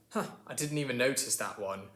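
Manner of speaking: British cousin reacting; mildly intrigued British voice; British accent. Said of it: "my British cousin here".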